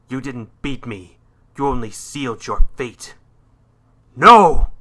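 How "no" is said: much higher, full-force cry of no; anguished shout. Acted. Losing the final battle, desperate full shout. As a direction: yell it out in sudden desperation.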